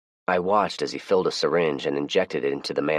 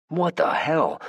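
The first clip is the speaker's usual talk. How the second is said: shocked; 12 semitones higher, slower than usual. Acted. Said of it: "I implored".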